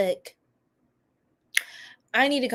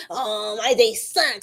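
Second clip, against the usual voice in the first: mock complaining; 2 semitones lower, slower than usual. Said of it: "Don't be talking about how your day".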